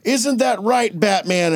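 slow public proclamation, lightly acted; lightly voiced Superman. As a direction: play a hero addressing the crowd.

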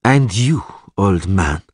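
put-on mild sneer at an old man; lightly scornful elf. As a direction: challenge him with a touch of scorn. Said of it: "asked the elf sneeringly".

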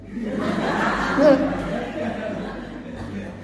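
breathy voiceless giggle; soft laugh. Acted. God in heaven chuckling at man's claim, voiceless laugh. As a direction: laugh quietly from above.

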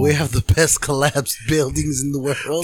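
mimicking a friend's presidential impression; Trump. Co-host throws the impression back at him, mock Trump voice. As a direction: mockingly echo his boastful politician voice. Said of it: "that's what you sounded like".

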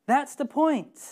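pushed-up echo of That's the point. Shown as a demonstration. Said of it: "repeated for emphasis".

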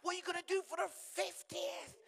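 high, loud, incredulous friends; mock friends shouting. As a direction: shout it like shocked mates. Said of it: "all my friends were like".

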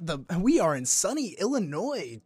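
chirpy Chase call-center greeting; cheery bank rep. Retold or imitated. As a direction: overdo the scripted sunny welcome. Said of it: "they'll be like".

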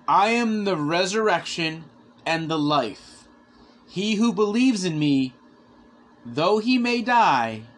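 emphatic, measured proclamation with long pauses; scripture declamation. Retold or imitated. Christ tells Martha of resurrection, solemnly proclaimed. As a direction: declaim each phrase with weight, stretching key words.

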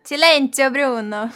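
put-on Italian-accented stern hush; sotaque italiano. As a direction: hush him like an Italian movie character. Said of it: "Faz aí, Nathalie". (sotaque italiano brincalhão)

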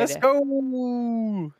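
hyped pup begging to go; excited dog voice. Retold or imitated.

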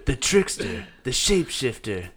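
mystical wine ad voice; dramatic, mysterious product pitch; wine commercial. Acted. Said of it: "read it like a commercial".

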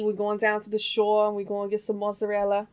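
put-on stereotypical New Jersey accent. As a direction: play up a Jersey shore accent. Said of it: "That last one, I don't know what it was".

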